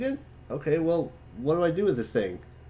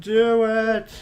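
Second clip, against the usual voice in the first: excited urging; 9 semitones higher, 7 dB louder than usual. Real, not acted. Urging friend to show drawing.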